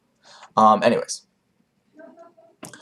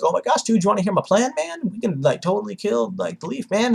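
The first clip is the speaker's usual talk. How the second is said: goofy dude voice; 11 semitones higher than usual. Retold or imitated. Madara voiced as excited dude.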